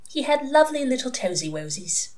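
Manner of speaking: put-on high, dreamy baby-talk; entranced reminiscence. A narrator's reading. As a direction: recall it tenderly from a trance. Entranced ex-nun remembers baby.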